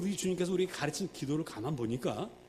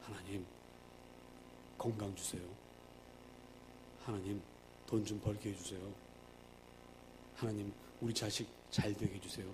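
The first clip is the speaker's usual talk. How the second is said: softer, lower mumbled prayer; hushed, lower mock petition; worldly prayer; 9 semitones lower, 12 dB quieter than usual. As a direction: imitate people quietly asking for health and money. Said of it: "기도 내용을 가만히 들어보면 이런 거예요".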